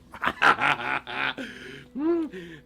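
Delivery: long gloating laugh; wicked wolf laugh. Acted. Wolf mocking trapped girl, long villain laugh. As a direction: laugh villainously at your captive.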